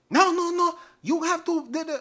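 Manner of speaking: high, loud imitation of a yelling doctor; mock yelling. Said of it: "the doctor starts yelling at me".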